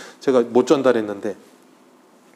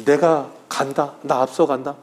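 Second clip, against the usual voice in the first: calm assurance; slower than usual. Retold or imitated. The Lord telling followers he goes first, slow and calm. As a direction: lead the way unhurried.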